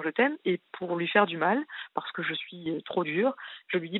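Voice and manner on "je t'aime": «je t'aime» pris plus aigu, moqueur; mocking his je t'aime. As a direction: imite son «je t'aime» avec ironie. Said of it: "je vois que c'est bizarre son". («je t'aime» singé, ironique)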